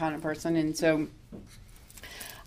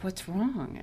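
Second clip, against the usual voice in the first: softer caring question; gentle concern; 7 dB quieter than usual. Retold or imitated. The woman asks the crying teller, soft and caring. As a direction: ask softly what's wrong.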